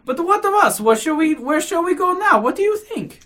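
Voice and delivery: high, loud, agitated questions; flustered urgency. A narrator's reading. Lady asking the official where to go now, flustered. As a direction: press him anxiously for a plan.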